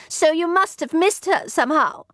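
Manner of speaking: high-pitched accusation; snapped. A narrator's reading. Maid blaming her companion for losing her, snapping. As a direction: blame the other testily. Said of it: "snapped the other".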